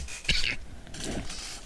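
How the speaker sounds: quiet breathy little cough; soft cough. Real, not acted. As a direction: clear the throat with a soft cough. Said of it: "I'm coughing".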